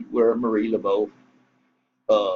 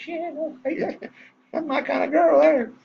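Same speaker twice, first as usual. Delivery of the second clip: tickled reply. Retold or imitated. Acts out his delighted reply.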